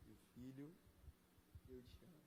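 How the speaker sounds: very soft, low murmur, slowing at the end; God speaking intimately. Acted. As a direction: speak as a father close at the ear. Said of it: "eu consigo ouvir Deus falar". (voz de Deus, baixinha e íntima)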